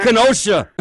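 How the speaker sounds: high, loud yelp of an answer; nervous boyfriend. Retold or imitated. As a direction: blurt it out like a scared kid.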